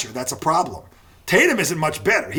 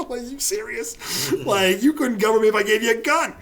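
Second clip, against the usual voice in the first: amused scoff; 6 semitones higher than usual. Retold or imitated. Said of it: "He's like, laughing".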